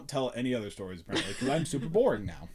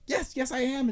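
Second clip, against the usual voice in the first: 1 mock defensive self; 9 semitones higher than usual. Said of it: "I was like".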